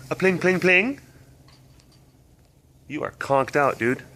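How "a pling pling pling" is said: plinking sound, pitched a little up; ping like hail on the roof; imitated hail pings. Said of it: "That'll make things go".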